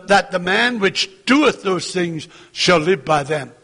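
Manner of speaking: "doeth" picked out as the key word; stress on doeth. Shown as a demonstration. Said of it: "the emphasis on the word "doeth".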